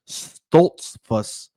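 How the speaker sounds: "Stoltzfus" broken up as STOLTS-fuss; careful "Stoltzfus" with the L-T-S clear; laboured pronunciation retry. Real, not acted. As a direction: sound out "Stoltzfus", drawing out the final S. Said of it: "This Hispanic accent is getting to me".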